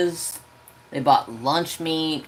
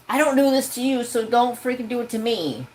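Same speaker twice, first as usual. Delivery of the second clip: high, pointed complaint; telling off the relatives; indignant; 7 semitones higher than usual. Retold or imitated. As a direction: insist firmly they stop. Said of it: "And I was just like".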